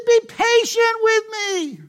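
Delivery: high pleading plea; begging. Acted. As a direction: beg for mercy on your knees. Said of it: "he begged".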